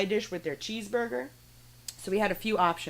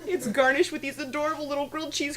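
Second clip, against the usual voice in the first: lightly bubbly higher server voice; Barbie voice; 5 semitones higher than usual. Retold or imitated. Server greeting customers, lightly higher Barbie voice. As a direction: chirp it out like a sweet Barbie. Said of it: "So I had to do this Barbie voice".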